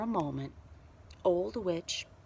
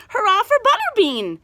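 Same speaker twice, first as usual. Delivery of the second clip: high, loud cheer; shout; 13 semitones higher, 11 dB louder than usual. A narrator's reading. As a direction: call it out. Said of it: "shouted someone".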